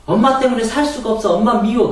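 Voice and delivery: put-on high, loud childish wail of blame; angry child shouting at mom; child's angry outburst. Shown as a demonstration. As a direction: yell at mom like a hurt kid.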